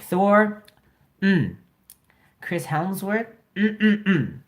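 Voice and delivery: mock-dreamy moans for a crush; swooning fangirl. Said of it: "She's like".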